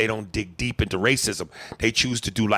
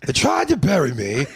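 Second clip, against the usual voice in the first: muffled calling out; 4 dB louder than usual. Pretend. Voicing buried man in trunk.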